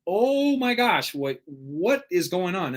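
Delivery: put-on high, slow, stunned gasp of a little boy; shocked child. A second-grader to his mom, hearing his friend died, stunned and shaken. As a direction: let the horror land, drawn out.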